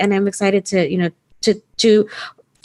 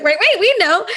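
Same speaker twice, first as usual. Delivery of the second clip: mock surprise; 12 semitones higher, slower than usual. Voices the group's surprised reply.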